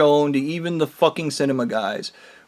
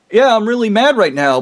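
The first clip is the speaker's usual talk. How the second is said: heated, higher-pitched admission of anger; really mad; 5 semitones higher, 3 dB louder than usual. Real, not acted. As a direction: push it out, openly pissed. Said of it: "I'm just pissed".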